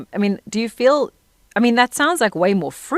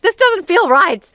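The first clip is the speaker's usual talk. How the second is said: high, slow, bewildered complaint, louder; baffled frustration; 11 semitones higher, 6 dB louder, much slower than usual. Retold or imitated. Learning the American accent, slow high baffled complaint. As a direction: drag it out, puzzled it won't sound right. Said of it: "It's like".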